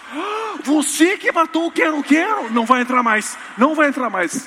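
very high, loud, laughing verdict; gleeful loud refusal. Pretend. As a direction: triumphantly shut him out. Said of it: "você quer entrar no céu?". (recusa triunfante, aguda e gritada)

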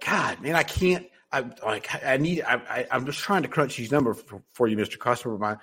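mild mock fluster, asking to borrow a pen; flustered apology. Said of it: "there's tonality that you have to listen to".

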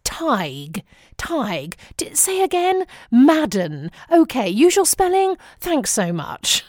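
mock-royal English accent, politely baffled; full-on royal English. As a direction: put on over-courteous royal family English. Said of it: "go full-on royal family".

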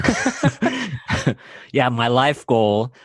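laughing. Real, not acted. Laughs at being teased for pinnacle.

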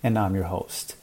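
measured, scripted host introduction; podcast intro read. Acted. Host welcomes listeners and introduces today's guest, scripted intro read. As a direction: read the episode intro to listeners, evenly paced.

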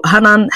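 Hanan with open a vowels; first name variant. Shown as a demonstration. Host listing accepted versions of her name, open-vowel "Hanan". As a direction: say "Hanan" as ha-nan, open a's. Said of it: "I don't really mind how it is pronounced".

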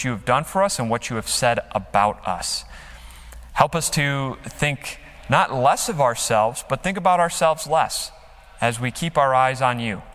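earnest spoken prayer, even and unhurried; closing prayer. Acted. Pastor praying for the church, earnest and steady. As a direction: pray it over the congregation.

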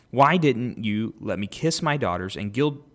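measured, lifted Bible reading; podcast host reading Genesis aloud, clear scripture reading. Acted. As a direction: read the passage out to the listeners.

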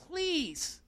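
Paul begging, fading to a hush; pleading Paul. Acted. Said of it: "here he's saying".

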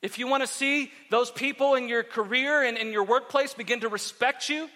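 emphatic, measured sermon delivery; preaching. Real, not acted. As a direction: drive each phrase home from the pulpit. Exhorts the congregation.

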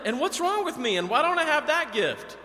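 high, loud self-pitying whine; whiny complaint. Retold or imitated. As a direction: whine it like a sulking child. Whining to herself about gift.

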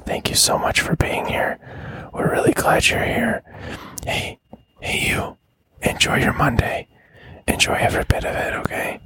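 ASMR whisper. Acted. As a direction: whisper it close and gentle. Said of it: "outro with some A S M R".

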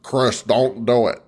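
hammed-up mock Aussie-American accent; exaggerated fake accent, stretched vowels; mock accent impersonation. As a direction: drawl it out in a put-on accent. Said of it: "I like when they impersonate Americans".

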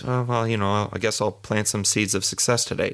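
shrugging, noncommittal delivery; lazy, unconvinced version of the affirmation; half-hearted. Shown as a demonstration. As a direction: toss it off like you doubt it.

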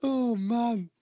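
high, squeezed laughing agreement; real laughter. Real, not acted. Podcaster agreeing with co-host about holes in the ice, laughing. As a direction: talk through a fit of giggles. Cracks up at co-host's dry remark.

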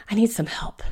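breathy whisper, words barely voiced; whispered plea. Bellamy reluctantly asks Fiona for help, whispered. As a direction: confess it under your breath.

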